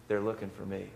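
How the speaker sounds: put-on child whispering a secret to a caller; whispered. A narrator's reading. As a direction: breathe it out like a hiding child. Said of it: "And Jimmy whispered".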